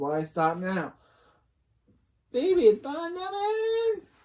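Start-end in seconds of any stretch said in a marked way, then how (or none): 2.3-4.0 very high-pitched put-on Chinese accent. Voicing Missus Wong calling out Phoebe's name: Missus Wong's Chinese accent. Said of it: "I'm just using it because I use it on the rest of my videos".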